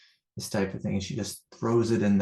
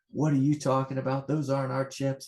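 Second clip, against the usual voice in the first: higher-pitched mock protest; retold yelling back; 4 semitones higher than usual. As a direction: imitate the family yelling back, mildly. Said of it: "They're yelling at me".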